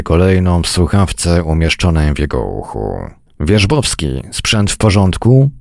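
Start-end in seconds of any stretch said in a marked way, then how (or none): none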